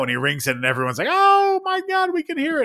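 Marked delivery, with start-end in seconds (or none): 1.1-2.6 put-on amazed kids.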